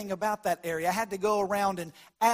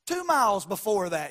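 west texas twang; 4 semitones higher than usual. Retold or imitated. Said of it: "it's gonna be by sight".

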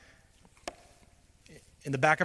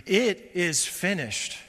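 higher, louder, slow and weighty; slow, raised proclamation of completion; Jesus's final declaration; 4 semitones higher, 4 dB louder, slower than usual. Acted. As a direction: pronounce it slowly as the victorious last word. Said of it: "So the Son of God says".

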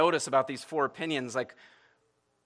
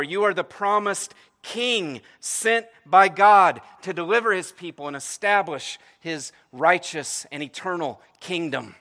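rising, louder declaration, slowing at the peak; fervent confession; 3 semitones higher, 6 dB louder than usual. Acted. Peter's confession expanded for the congregation, fervent and building. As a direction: build it up like a preacher's climax.

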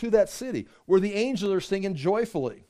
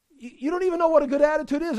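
fast, higher exasperated comeback; rapid retort; 7 semitones higher, faster than usual. Real, not acted. Preacher snaps back at smug sinner, fast and high. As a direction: fire it back quickly.

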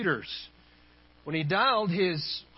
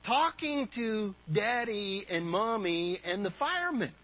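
put-on child's whisper; 3 dB quieter than usual. Child reporting to the boss on the phone, mock whisper. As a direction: lightly imitate a little child's hushed reply. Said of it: "came the whispered reply".

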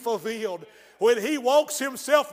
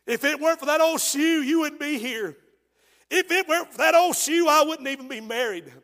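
impassioned motherly insistence; 3 semitones higher, 4 dB louder than usual. Acted. Ruth makes her son listen about the shoe, impassioned insistence.

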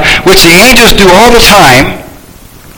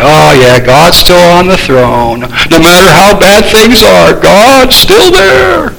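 mocking complacent tone; slower than usual. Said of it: "that's a terrible way to say it".

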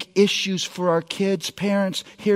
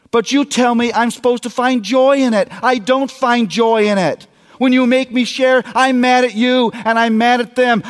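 a little higher, mildly tearful outburst; a girl telling her dad she can't do it; upset daughter; 4 semitones higher than usual. Retold or imitated. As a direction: pour out the frustration like a tearful twelve-year-old. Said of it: "tears streaming down her face".

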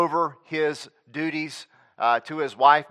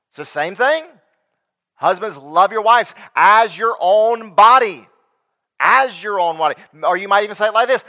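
forceful preacher driving each point home; emphatic preaching; 3 semitones higher, 6 dB louder than usual. Real, not acted. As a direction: preach it hard, punching the key words.

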